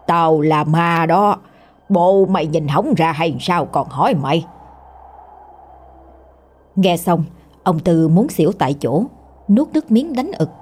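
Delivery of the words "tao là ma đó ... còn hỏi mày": lightly voiced shrill ghost. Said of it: "giọng lanh lảnh".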